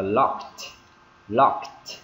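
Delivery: "locked" ending in a crisp T; "locked" with a voiceless T at the end, not D; final T sound. Shown as a demonstration. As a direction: say "locked" as "lokt", releasing the T. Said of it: "Ending sound là T luôn".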